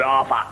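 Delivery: "Arthur" said as Ah-fah; Londoner's TH as F. Acted. London job applicant giving his name, "Arthur" as Arfur. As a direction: put an F in the middle of "Arthur". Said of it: "the Londoner has trouble with the T and the H".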